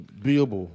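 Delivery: "Beeble" as one word, rhyming with feeble; misread as Beeble. Retold or imitated. Guest quoting those who misread his name, "Beeble" run together. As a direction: quote the misreading "Beeble", long ee, no "A". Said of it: "They be like".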